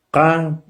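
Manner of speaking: K said as a hard back-of-throat K; Totonac K sound. Shown as a demonstration. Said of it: "el acento es K".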